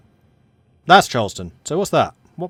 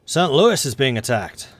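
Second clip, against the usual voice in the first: put-on slow headline in a Southern American accent; slower than usual. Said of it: "twisting this southern accent".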